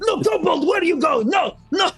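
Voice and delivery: very high, loud panicked cry; panicked jailer shout. Acted. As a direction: shout in panic at the empty cell. Jailer shakes cage panicking.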